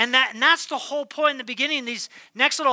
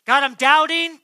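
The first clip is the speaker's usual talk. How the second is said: pleading cry; 2 semitones higher, 7 dB louder than usual. Pretend. Believer cries out to God.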